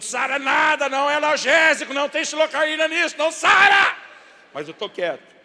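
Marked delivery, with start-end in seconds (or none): 0.0-4.0 very loud, high outraged rant; furious shout. Acted. Dad wants to scream that kisses don't heal, outraged shouting. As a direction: scream it out, building to the last words. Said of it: "Eu quero gritar pra Deus e o mundo".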